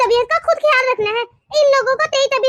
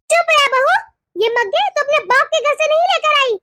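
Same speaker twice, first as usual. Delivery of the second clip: acted cross snap at a daughter-in-law; mother-in-law's irritated telling-off; angry scolding. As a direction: scold her with mild anger. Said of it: "इतने गुस्से में क्यों हैं आप".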